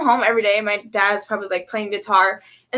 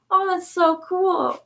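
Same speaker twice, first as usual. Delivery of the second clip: higher, drawn-out wowed reaction; slow, admiring swoop on the words; retold awe; 6 semitones higher, slower than usual. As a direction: imitate an impressed kid.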